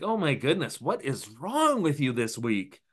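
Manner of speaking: drawn-out, very high exasperation; slow, fed-up mock groan at dad; exasperated daughter. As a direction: daughter fed up with her father on the phone. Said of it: "It's like".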